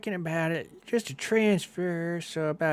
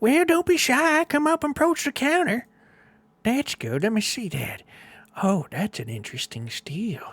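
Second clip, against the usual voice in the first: put-on old woman voice, high and swooping; 7 semitones higher, 6 dB louder than usual. Game master voicing an old tiefling greeting two adventurers, in an old tiefling woman voice. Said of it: "you see an old tiefling behind the desk".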